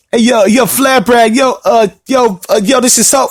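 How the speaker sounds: lightly voiced rapper butting in; a hint of a rapper impression, interrupting; a famous rapper. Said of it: "a famous rapper?".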